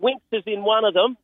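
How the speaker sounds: can't contain the excitement about his horse; thrilled. Real, not acted. Telling the host about his horse in the Group One, thrilled and high. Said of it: "I can hear it in your voice".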